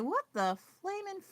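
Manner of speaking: playfully flabbergasted, pitch up; retelling her inner shriek at capitalism; mock baffled outburst. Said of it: "So I was like".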